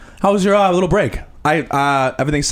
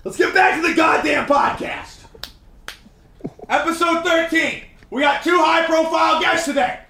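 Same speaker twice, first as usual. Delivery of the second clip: yelling announcement; 3 semitones higher than usual. Acted. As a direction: bark the intro like an angry host. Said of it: "I'm gonna stop yelling".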